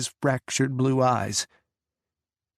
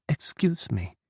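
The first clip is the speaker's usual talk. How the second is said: put-on accented English; 4 semitones higher than usual. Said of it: "switching to accented English".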